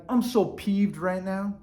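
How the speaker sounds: slow, understated annoyance; mildly peeved. Acted. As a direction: swap the outburst for mild pique. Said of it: "what if you're like".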